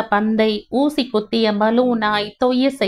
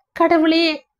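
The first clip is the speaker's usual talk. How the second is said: anguished cry; 7 semitones higher, slower than usual. Acted. Wife cries out to God.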